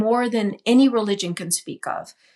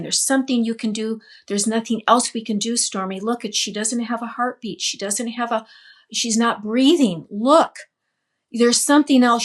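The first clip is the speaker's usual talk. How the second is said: frantic pleading. Retold or imitated. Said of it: "She's, like, frantic".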